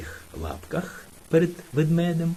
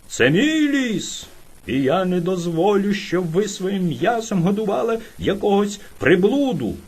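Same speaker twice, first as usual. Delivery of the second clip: strange bear shouting; 3 semitones higher than usual. Retold or imitated. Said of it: "крикнув він".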